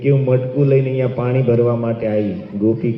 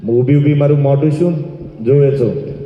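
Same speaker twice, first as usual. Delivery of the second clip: scolding mother-in-law; 3 semitones higher than usual. Acted. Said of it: "સાસુએ સો ગાળીઓ આપી".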